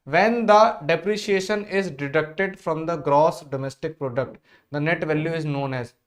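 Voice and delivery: each word drawn out; slow teacher read-out; slow question read. Shown as a demonstration. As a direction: read the question slowly for the class. Reading question slowly.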